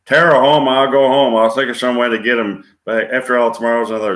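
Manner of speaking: Southern belle, starting high and loud; Vivian Leigh. Acted. Rich belle longing for home, Southern drama. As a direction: play a dramatic Southern belle, easing as it goes. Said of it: "Vivian Leigh playing rich Southern belle".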